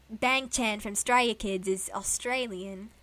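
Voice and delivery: slow, put-on Australian accent. Introducing a singer to a friend, Australian accent. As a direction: say it in an amateur Aussie accent. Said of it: "how to do an Australian accent".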